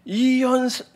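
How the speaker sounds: imitated speech-contest cry, pitched high; orator's shout. Preacher recalling a classmate at speech contests, imitated orator's cry. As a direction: mimic a schoolboy orator's opening cry. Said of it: "막 외치는데".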